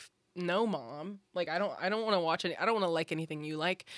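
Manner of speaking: ordinary talk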